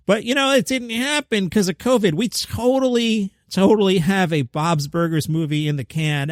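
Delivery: high, sarcastic impression of the studio; sarcastic mock voice. Host mocking the studio's covid excuse in a sarcastic high voice.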